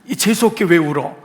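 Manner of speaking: mock scolding. Preacher parodies a wrong reading of Jesus' question, irritated scolding. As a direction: complain as if the tears bring bad luck. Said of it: "그런 의미는 아닐 거예요".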